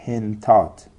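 hentat, N running straight into T; هنتات in two syllables, hen-TAT; vowelless middle consonant. Shown as a demonstration. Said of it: "سه وجه جایزه".

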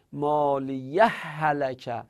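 مالیه هلکه run together as "maliyahhalaka"; merged h sounds. Shown as a demonstration. Teacher shows students the forbidden joining, merged h sounds. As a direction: join مالیه هلکه on one long h, without stopping.

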